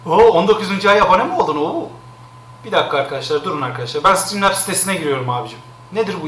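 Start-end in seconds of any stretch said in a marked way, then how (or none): none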